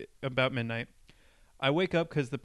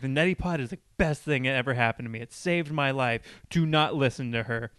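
mock insistence, building to a louder order; aggressive, imitated; 4 dB louder than usual. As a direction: mimic a pushy stranger's emphatic testimonial. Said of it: "aggressively, like".

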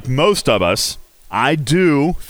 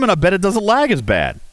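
ordinary delivery

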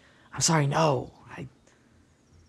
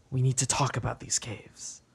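whisper; 6 dB quieter than usual. Acted. NPC speaks secretly, just us.

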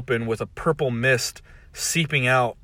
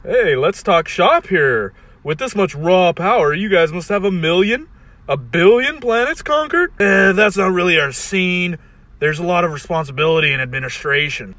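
scheming Rick voice; 6 semitones higher, 6 dB louder than usual. Acted. Rick talking shop.

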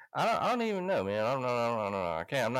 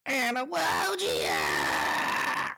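surprised whoa; 6 semitones lower, 4 dB louder, much slower than usual. Real, not acted. Surprised outburst.

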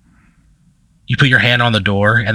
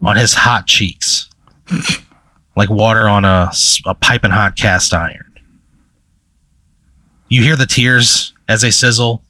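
game master's scene setting. Acted. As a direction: let each phrase hang before the next.

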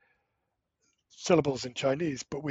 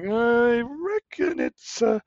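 unsure native speaker; 8 semitones higher than usual. Retold or imitated. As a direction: play a native speaker mulling over a tone. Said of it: "they're like".

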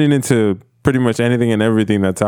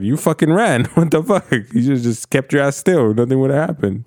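high-pitched, incredulous mock telling-off; exasperated scolding; 5 semitones higher than usual. Host blaming people who ran, exasperated scolding. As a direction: scold them for their own mistake. Acted retort to injured runaways.

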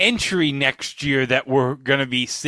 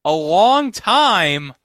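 drawn-out, slow and higher; mock surprise; 4 semitones higher, 4 dB louder, much slower than usual. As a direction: stretch out long in disbelief.

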